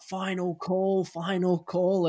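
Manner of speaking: slow, drawn-out announcer call; slow mock airport announcer; mock boarding call.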